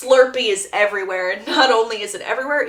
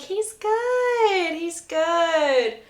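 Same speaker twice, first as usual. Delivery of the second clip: higher nervous reassurance; 7 semitones higher, much slower than usual. Retold or imitated. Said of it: "Belly's like".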